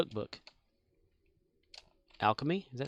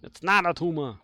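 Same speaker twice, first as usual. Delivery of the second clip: lightly voiced action-hero impression; Arnold Schwarzenegger; faster than usual. Player correcting a chat message, Arnold impression. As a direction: do the accented movie catchphrase, building on the repeat. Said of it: "I can do an Arnold voice".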